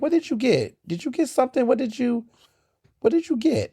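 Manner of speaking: high, eager prying questions; pry for the secret, mock-innocent; nosy snooping friend. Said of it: "I'm always snooping".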